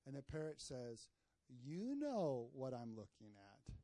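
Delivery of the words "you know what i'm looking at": slow, drawn-out punchline; knowing retort. Acted. Parrot answering the man who complained, slow knowing retort. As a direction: stretch it out, knowingly unimpressed.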